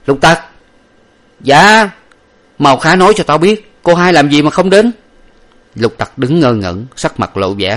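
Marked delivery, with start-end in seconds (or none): 0.1-0.4 sharp loud call, pitched up. A narrator's reading. Master calls his servant sharply, loud and raised. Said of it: "bèn dây qua kêu Lục Tặc". 1.4-1.9 high, loud startled reply; startled servant. A narrator's reading. Servant answers his master in high startled fright. 2.6-4.9 high, loud urgent demand. A narrator's reading. Master demands his servant explain, loud and urgent.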